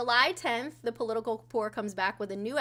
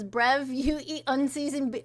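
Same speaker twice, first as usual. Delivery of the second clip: mock borderline-Cockney accent; lightly put-on British accent; muddled British accent; 2 semitones higher than usual. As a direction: read it in a rough imitation Cockney. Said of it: "I had to read it in the accent".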